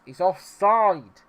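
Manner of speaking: high, slow, drawn-out shout; shouted offside appeal; loud protest. Real, not acted. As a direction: yell it indignantly, stretching OFFSIDE. Repeats offside call, now shouting.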